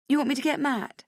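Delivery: put-on high, sympathetic girlfriend voice; comforting friend. Friend in the toilets consoling crying Rach, high and sympathetic. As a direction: soothe her like a worried best friend. Vivian offers help.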